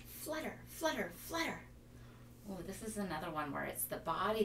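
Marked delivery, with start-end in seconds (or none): 0.1-1.6 light fluttery sound; airy flutter. Shown as a demonstration. Teacher fluttering like a butterfly.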